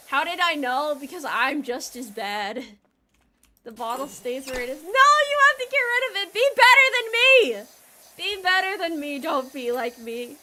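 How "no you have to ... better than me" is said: mock lecture. Lecturing chat about the bottle.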